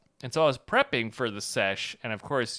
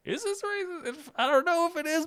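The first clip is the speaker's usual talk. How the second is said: high anxious self-doubt; squeaky doubtful question. Retold or imitated. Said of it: "in a way where you're like".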